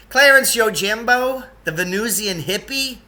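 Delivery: high, loud, slowed astonished exclamation; exclaiming. A narrator's reading. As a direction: burst out in disbelief. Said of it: "Lance Hergesheimer exclaimed".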